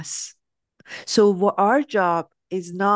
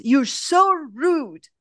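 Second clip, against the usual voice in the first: higher, drawn-out mock outrage; mild mock scream; 5 semitones higher, slower than usual. Barista screaming at leaving customer, as a mild mock yell. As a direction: imitate an upset cry without really shouting. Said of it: "she screams at him and says".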